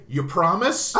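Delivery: loud, laughing "You promise?"; laughing kid pleading. Retold or imitated. Harry pressing Ray for a promise, loud and laughing. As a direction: ask it like a kid in a game. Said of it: "he's even saying".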